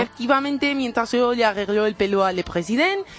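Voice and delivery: put-on Spanish with a French accent. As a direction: play a fussy French hairdresser. Comic French hairdresser character.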